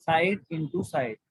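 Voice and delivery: very slow, word by word; dictation pace. Shown as a demonstration. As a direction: spell it out slowly. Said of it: "formula dictated". (धीरे धीरे बोलना)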